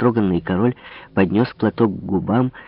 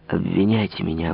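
plain reading voice

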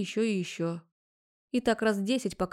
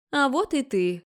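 mother bursting out, higher and louder; excited exclaim; 5 semitones higher, 5 dB louder, slower than usual. A narrator's reading. Mother at the door greets daughter, worked-up exclaim. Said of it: "взбудораженно воскликнула она".

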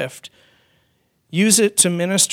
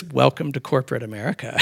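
wry laughing; 4 semitones lower, 3 dB quieter, faster than usual. Retold or imitated. CEO's wry punchline.

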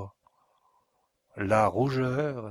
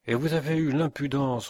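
a touch of fury, louder and raised; angry father accuses the count of deceit; furious; 5 semitones higher, 4 dB louder than usual. Acted. A hint of fury. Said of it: "reprit le forestier furieux".

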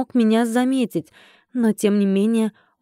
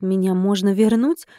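usual speaking voice

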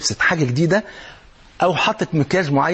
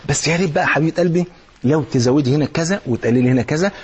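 tender compliment; 3 semitones lower than usual. Retold or imitated. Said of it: "قول لها".

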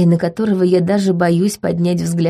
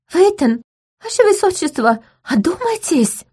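high urgent stage whisper; frightened loud whisper; 11 semitones higher than usual. A narrator's reading. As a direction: hiss urgently, pitched up. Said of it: "громким шёпотом".

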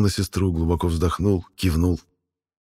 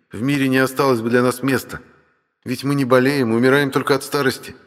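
brother's higher, animated character voice; dragon brother; 6 semitones higher than usual. Acted. Brother explains dragon births to sister, higher lively voice. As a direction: explain it as the know-it-all brother.

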